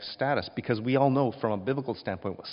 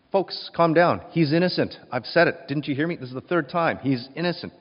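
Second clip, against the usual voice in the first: louder, urgent pleading with the crowd; desperate plea; 4 semitones higher, 4 dB louder than usual. Acted. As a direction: beg the mob to settle. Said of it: "Pilate desperately says".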